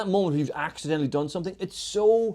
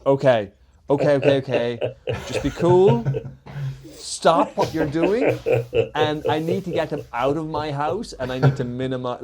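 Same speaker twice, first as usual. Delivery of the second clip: panicked self-talk; 5 dB louder than usual. Retold or imitated. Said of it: "and he's like".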